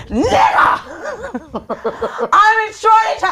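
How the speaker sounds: high, loud acted-out alarm; comic high-pitched yelling; frantic shout. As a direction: shriek the news to your friends, hammed-up. Acts out frantic group chat text.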